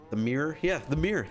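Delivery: "mirror" squeezed into "meer"; one-syllable Michigan pronunciation. Shown as a demonstration. Streamer confirming what locals say, one-syllable "mirror". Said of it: "That's what we say".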